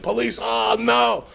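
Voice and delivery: mock dread. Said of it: "I'm like".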